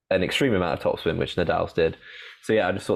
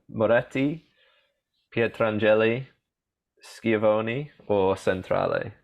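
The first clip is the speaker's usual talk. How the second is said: slow list of names in an attempted Italian accent; careful Italian-accented names; best Italian accent; 3 semitones higher, slower than usual. Shown as a demonstration. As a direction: repeat the options with an Italian lilt. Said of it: "do it in my best Italian accent".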